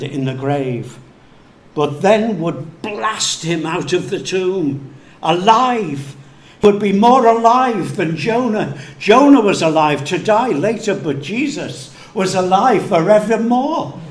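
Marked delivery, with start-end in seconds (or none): 5.2-14.0 rising, much louder and higher preaching cry; building preacher's crescendo; triumphant proclaiming. Acted. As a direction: proclaim it like a shout of victory.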